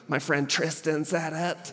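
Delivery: put-on small, slow scared-kid voice; a hint of a nervous son. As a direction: play the frightened little boy confessing. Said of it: "He got all scared".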